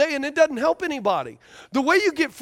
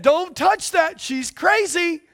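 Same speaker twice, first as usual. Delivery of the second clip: a hint of a stern father; daddy warning; 5 semitones higher, slower than usual. Preacher voicing daddy warning the son, lightly raised. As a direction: warn him off, raised a little. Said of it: "Daddy said".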